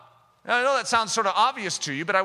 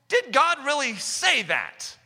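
slow, higher, sly hiss of a tempter; serpent's voice; 4 semitones higher, slower than usual. Retold or imitated. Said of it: "The serpent".

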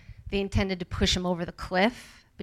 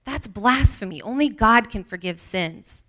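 indignant muttering; 4 semitones higher, 3 dB louder than usual. Acted. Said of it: "said to themselves".

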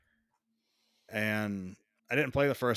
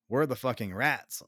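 exasperated; 2 semitones higher than usual. Retold or imitated. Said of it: "That's what you're thinking".

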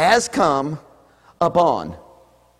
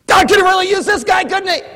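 high, loud mock enthusiasm; hammed-up false praise; sarcastic; 6 dB louder than usual. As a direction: say it without meaning it. Sarcastic about poor man.

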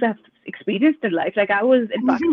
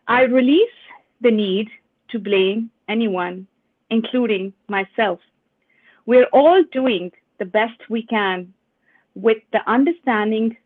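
slow, measured card reading with pauses; deliberate, spaced-out recital; affirmation reading; slower than usual. Acted. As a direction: read each phrase as an affirmation to absorb. Reads an affirmation card aloud.

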